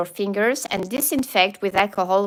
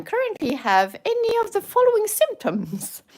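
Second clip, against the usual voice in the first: whisper; 11 semitones higher than usual. Pretend. Reading questionnaire, sudden whisper.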